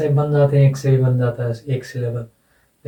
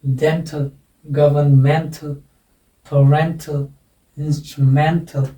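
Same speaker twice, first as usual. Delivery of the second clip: slow "dental, governmental, parental, instrumental", each stressed on "men", "den" or "ren"; stress on -ental; much slower than usual. Shown as a demonstration. Teacher models word accent for students, stressed second-last syllable. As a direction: lean on the syllable before "tal" in "governmental". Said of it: "अब इनका उच्चारण हो जाएगा".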